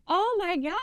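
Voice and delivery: high-pitched mock dismay; acted dismay. Client taken aback by his agent's complaint, acted dismay. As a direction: imitate the client's high, startled protest. Client reacts aghast in retold quarrel.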